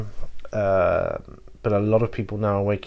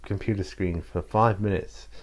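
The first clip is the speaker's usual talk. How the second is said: put-on dad's telling-off in a light Yorkshire accent; a hint of Yorkshire, imitating a nagging dad. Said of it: "Yorkshire accent".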